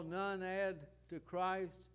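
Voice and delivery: slow, every word weighted, stress on add; emphatic stress. Shown as a demonstration. Preacher driving home to the congregation that none add to Christ, slow and emphatic. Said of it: "Let me emphasize that".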